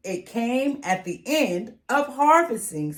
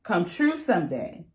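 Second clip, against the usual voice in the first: candidate's campaign pitch; 4 semitones higher than usual. Acted. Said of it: "the candidates say".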